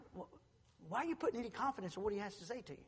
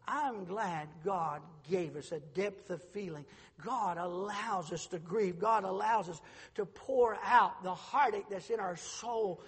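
tender preaching; slower than usual. Acted.

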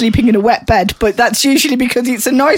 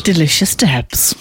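whispered; 5 semitones lower, slower than usual. Acted. Introduced as the takeover team.

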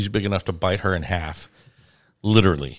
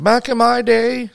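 put-on grouchy old-timer; 14 semitones higher than usual. Host mocking their own old age, hammed-up grouchy oldster. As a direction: complain like a cranky elder, dragging out the ending. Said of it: "We start to get grouchy about".

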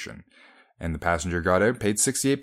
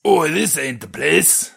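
high, slow, loud Cockney bellow; mock Cockney passenger; 8 semitones higher, 5 dB louder, slower than usual. Host replaying the passenger's protest, exaggerated Cockney. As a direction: stretch out a hammed-up Cockney complaint. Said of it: "the passenger reportedly said".

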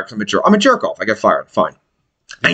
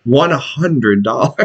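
laughing shout; 2 semitones lower, slower than usual. Real, not acted. Mock price sign, laughing.

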